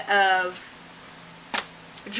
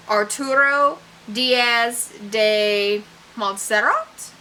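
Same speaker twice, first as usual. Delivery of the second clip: put-on tentative Spanish accent, slow, rising like a question; slower than usual. Reader trying a character's name in a light Spanish accent. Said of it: "trying to say it with an accent".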